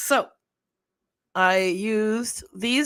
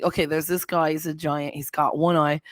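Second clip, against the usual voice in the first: lower-pitched Jersey storyteller; Jersey accent; 5 semitones lower than usual. Retold or imitated. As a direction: retell it in a put-on East Coast accent. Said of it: "in, in that accent".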